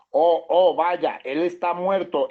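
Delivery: mock alarmed cry, drawn out. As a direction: cry out in alarm, then slow down. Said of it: "Mire lo que gritaron".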